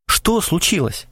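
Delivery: slowed, anxious asking; a touch of worry in the question; alarmed question. A narrator's reading. Alarmed Krasilnikov asks Krysakov, mildly anxious. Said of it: "повернулся к нему встревоженный Красильников".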